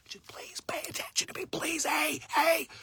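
pleading whisper of a small inner voice; urgent whisper. Pretend. Inner voice pleading with the listener, urgent whisper. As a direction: breathe it out like a hidden voice begging to be heard. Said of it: "it's a fucking quiet yell".

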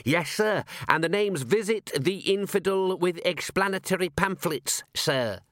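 high-pitched, eager junior constable; Constable Visit. Acted. Constable reporting a gruesome find to his commander, high and eager. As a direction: report it high and keen to a superior.

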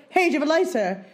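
mildly pushy imitated opener; retold, slightly aggressive ask; mock aggressive. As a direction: imitate a too-forward approach. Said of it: "he kept being really aggressive".

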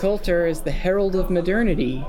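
flat, droning cult follower; monotone voice. Acted. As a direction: recite it like a brainwashed drone. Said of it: "in a strange monotone voice".

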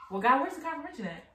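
mock indignant demand. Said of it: "we're like".

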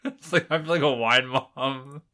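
slow words through laughter; laughing. Real, not acted. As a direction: giggle while talking. Laughing at own joke.

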